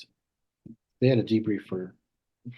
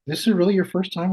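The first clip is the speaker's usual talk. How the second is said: alarmed patient; 9 semitones higher, 5 dB louder than usual. Retold or imitated.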